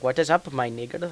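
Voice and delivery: attempted Indian accent; bad Indian accent. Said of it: "I can't do a good Indian accent".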